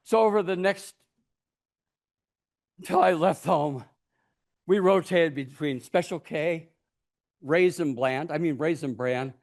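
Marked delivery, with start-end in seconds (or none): none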